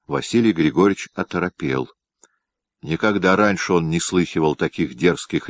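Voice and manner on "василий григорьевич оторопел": ordinary delivery, nothing marked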